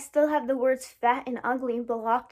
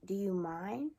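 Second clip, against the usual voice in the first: negative vibe; 3 semitones lower, 5 dB quieter, slower than usual. Shown as a demonstration. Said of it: "a kind of negative vibe, especially if you say".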